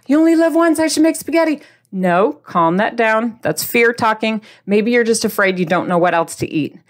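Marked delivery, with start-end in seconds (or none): 0.1-1.6 1 mock yolo.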